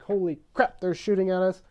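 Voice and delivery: comic panicked shout; mock panic. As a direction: yell it like a startled soldier, hammed up. Americans echo the panic, acted.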